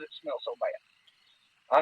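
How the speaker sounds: high, slow, stretched-out disgust; disgusted drawl. Retold or imitated. Hunter retells the stench to his friend, high disgusted drawl. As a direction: make the stench sound unbearable.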